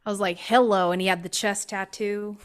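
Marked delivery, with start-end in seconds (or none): 0.4-0.9 louder, appreciative hello; flirty hello. Retold or imitated. Reacting to a handsome man on the trail, flirty. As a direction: greet him like you like what you see.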